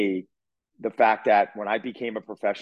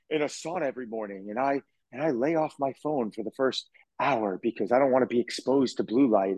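mock wellness guru. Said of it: "talking like that".

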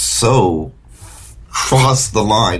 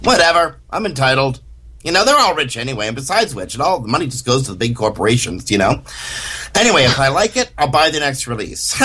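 entitled pirater; 5 semitones higher, faster than usual. Retold or imitated. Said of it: "Robert J. Sawyer's, uh, impression".

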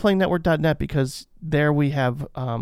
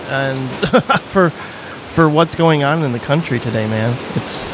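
muffled Skype line, like underwater; 2 semitones higher, 5 dB louder than usual. Real, not acted. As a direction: sound as if underwater on a bad call. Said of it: "making me sound like I'm underwater".

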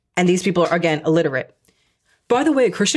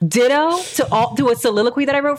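high-pitched, incredulous comeback; hammed-up disbelief at a short reply; mock indignation; 8 semitones higher, faster than usual. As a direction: play the affronted sender, rushing into the question. Acting the offended texter's reply.

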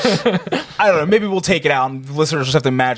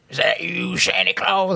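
softer half-hearted jazz-singer impression; a jazz singer; 4 dB quieter, slower than usual. Shown as a demonstration. Podcaster retries the impression for cohosts, soft and half-hearted jazz singer. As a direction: try a quick, weaker take on the old singer. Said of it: "That wasn't as good".

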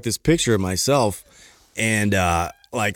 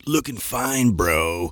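creepy flirty voice; 3 dB quieter, much slower than usual. Retold or imitated. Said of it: "I read it in that voice".

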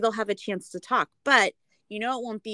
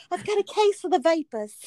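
high, loud fainting-lady gasp; swooning Southern belle; 9 semitones higher, 5 dB louder than usual. Retold or imitated. Imagining Natalia in a long robe, swooning belle. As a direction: play the delicate lady with the vapors. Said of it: "I could see her, like, with a long robe".

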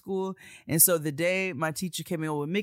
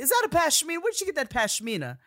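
high, loud and impressed; grand fashion voice; 9 semitones higher, 6 dB louder than usual. Retold or imitated. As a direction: gush over it grandly. Impersonating Talley admiring a pashmina.

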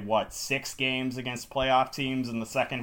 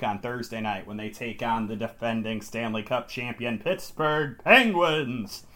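dramatic voice. Acted. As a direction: stretch the team name out for drama. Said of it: "That's my dramatic voice".

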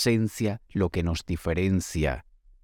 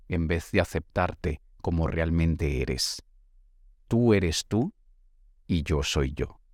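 poem reading. Acted. Lee un texto. (lectura pausada de un poema)

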